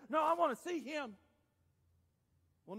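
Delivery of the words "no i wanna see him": high, loud, firm insistence; Jesus. Acted. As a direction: cut through the crowd with a command. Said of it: "Jesus stops and says".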